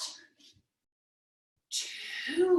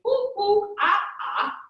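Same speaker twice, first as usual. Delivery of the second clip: higher, louder monkey ooh-ah; playful monkey noises for kids; monkey calls; 7 semitones higher, 6 dB louder than usual. Pretend. Parent showing kids monkey sounds, playful and higher. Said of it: "be a monkey and say".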